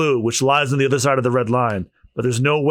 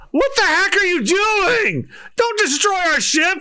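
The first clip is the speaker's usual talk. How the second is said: much higher, slow alarmed yell; high shouting girl; slower than usual. Acted. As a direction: scream at him to stop. Girl voice yelling at Luffy.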